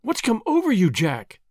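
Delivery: high, urgent question; alarmed, pressing; anxious cry. Acted. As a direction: plead for an answer. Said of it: "she cried".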